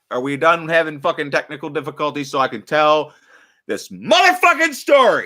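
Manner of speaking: fed up with the tech, let it blow; exasperated yell. Real, not acted. Streamer fed up with tech glitches, exasperated yell.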